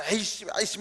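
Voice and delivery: a mock-annoyed child grumbling at chores. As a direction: imitate a kid grumbling in protest. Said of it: "궁시렁궁시렁거리면서".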